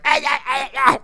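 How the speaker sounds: high repeated yelps; imitated victim yelping at each hit; mock cries of pain.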